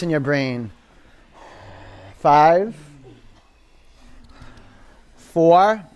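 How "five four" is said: loud counting. Real, not acted. Instructor calling out the count.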